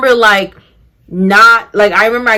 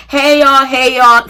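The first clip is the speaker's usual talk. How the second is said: bright, sing-song mock-cheerful hey; a touch of petty cheer; breezy greeting; 5 semitones higher, 4 dB louder than usual. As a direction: greet everyone sweetly, snubbing him.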